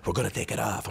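high, loud put-on mother voice; mother's voice. Mother tells her son they'll take it off, in a high put-on voice. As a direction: play his mom, high and bossy. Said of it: "My mother".

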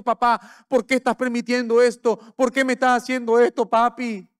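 put-on a boy asking his dad why; hurt child. Son asking his father why he allows the needle, lightly voiced child. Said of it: "como diciendo".

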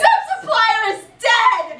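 slow, high, loud declaration; mock shout. Reenacting a fan fiction scene, hammed-up shout. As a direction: proclaim it like a dramatic villain.

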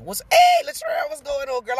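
bright call-out welcoming Latrell; excited greeting. Real, not acted. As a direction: sing out hello to a friend in the chat. Calling out greeting to viewer.

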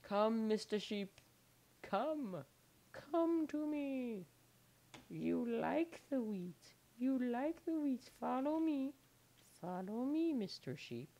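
high, loud sing-song coaxing; coaxing an animal. Pretend. Coaxing a sheep to follow.

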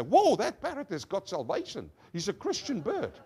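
mock-amazed exclamation with swooping pitch; lightly acted wonder; amazed visitor. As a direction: play a visitor marvelling at the bird. Amazed visitor exclaims over the parrot.

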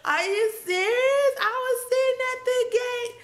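high-pitched, loud outraged protest; worked-up, tearful-high indignation; cursing someone out. Retold or imitated. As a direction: re-enact an incredulous rant at the gate agent. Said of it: "So I'm cursing".

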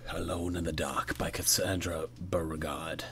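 breathy whispered title read. Acted.

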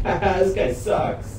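slowed-down voice. Acted. Slowed distorted voice.

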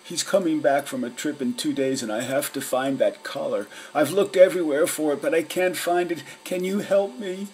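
desperate dog pleading with the cat detectives, high and fast; anxious big dog. A narrator's reading.

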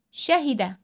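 quick kasra in شهد; short i in شهد. Shown as a demonstration. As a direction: keep the i of شهد brief. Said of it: "الكسرة حركة قصيرة".

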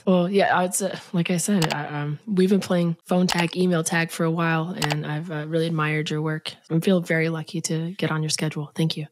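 husky, sick throat; talking through a sore throat; hoarse voice. Real, not acted. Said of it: "a singer's deep throat".

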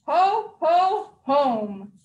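ho ho through a big yawn. Acted. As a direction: yawn it out, tired Santa. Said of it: "with a big yawn and stretch".

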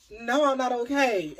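high, loud, slow retort; indignant retort. Retold or imitated. Answering the officer who asked if she's okay, indignant. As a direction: snap back in disbelief. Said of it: "I'm like".

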